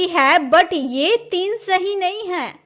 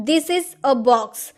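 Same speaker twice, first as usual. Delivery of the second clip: slow dictation; 2 semitones lower, much slower than usual. Shown as a demonstration. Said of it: "dictating an example".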